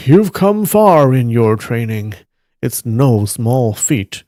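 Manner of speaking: lightly acted approving master; mild kindly praise. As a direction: praise a pupil gently, easing off at the end. Master praising a young student.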